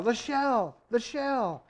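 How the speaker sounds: loud urgent high cry; shouting. A narrator's reading. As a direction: yell it over the storm. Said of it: "he shouted against the rising gale".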